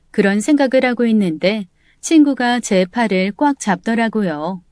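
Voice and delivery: plain reading voice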